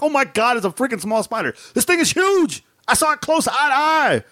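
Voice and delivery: high excited voice of a wife, imitated; wife's voice. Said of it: "My wife's like".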